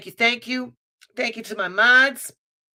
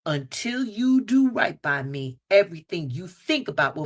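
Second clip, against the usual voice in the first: lightly voiced Celie curse; quoting Celie; 5 semitones lower than usual. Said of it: "What did Celie say?".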